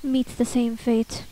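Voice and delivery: slow, solemn guardian warning; weighty, slow lines with pauses between; Toriel. Acted. Toriel warns the child of leaving, slow and grave. Voices a game character's warning.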